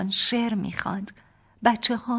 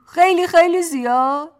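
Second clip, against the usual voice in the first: put-on higher and louder baby talk, زیاد rising at the end; babyish question; 11 semitones higher, 13 dB louder than usual. Husband teasing his wife, babyish rising question. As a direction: ask خیلی خیلی زیاد؟ with a big childish rise. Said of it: "با همان لحن بچگانه".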